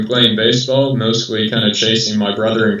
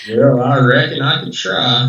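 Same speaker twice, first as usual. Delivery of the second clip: put-on hillbilly accent; 3 semitones higher than usual. Runner asked to continue the broadcast in that accent, hillbilly accent. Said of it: "I love that accent".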